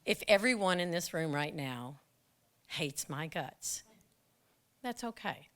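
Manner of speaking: quiet inner monologue. Retold or imitated. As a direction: think it to yourself at peace. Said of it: "I said, in my mind".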